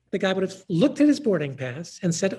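ordinary talk

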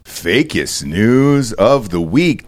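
high, drawn-out hammed-up anchor intro; mock news anchor. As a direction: open the show like an overblown TV anchor. Mock news anchor opening the show.

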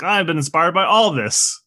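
high, drawn-out excited impersonation; Quentin Tarantino. Retold or imitated. Director gushing over his many sources, high excited voice. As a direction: gush it high and slow, mock-inspired. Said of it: "is a little Quentin Tarantino, where he's like".

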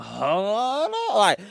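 high-pitched, drawn-out halt; shocked disbelief. Retold or imitated. Podcaster reacting to girl's cheating story, shocked. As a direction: stop everything in mock shock.

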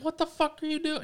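high-pitched outraged yell, retold. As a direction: yell it like at a bad driver. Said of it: "fucking yelled at him".

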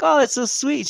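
very high, put-on cooing; mock sweetness. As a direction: coo it insincerely, way up high. His mock-sweet reply to ex.

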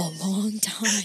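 slow, laughing brooding-vampire line; Edward from Twilight. Retold or imitated. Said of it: "It's kind of like Edward from Twilight when he's like".

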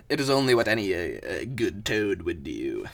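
lightly strained character voice; resume the humble champion voice; put-on toad voice. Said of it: "God, the voice is gonna destroy me".

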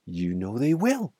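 storyteller's mild tearful protest; narrated sobbing. A narrator's reading. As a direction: plead tearfully, without real sobs. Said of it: "sobbed Missus Fox".

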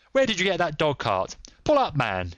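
high, angry yell; yelled demand. A narrator's reading. Cyclist drawing a pistol on the dog-cart, yelling. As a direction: yell a challenge at the driver. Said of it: "he yelled".

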